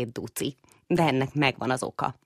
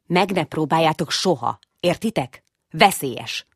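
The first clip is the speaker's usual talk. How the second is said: firm stern father, a bit louder; stern warning; 3 semitones higher, 4 dB louder than usual. Acted. Father mouse warns his sons away from the gate, stern. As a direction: forbid it firmly. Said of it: "mondta szigorúan egérpapa".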